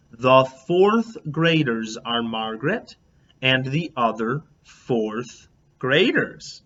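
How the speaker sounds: slow, gentle and patient, as if to a distracted parent; really kind voice. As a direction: explain it kindly, taking your time. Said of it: "I said in a really kind voice".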